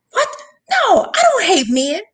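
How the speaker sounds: high-pitched retold protest; shocked denial. Mother answering her daughter's accusation that she hates men, shocked denial. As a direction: act out a taken-aback denial, pitch jumping up.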